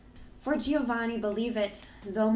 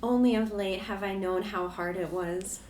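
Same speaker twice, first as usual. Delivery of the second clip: tender; 11 semitones higher than usual. A narrator's reading. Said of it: "answered she, tenderly".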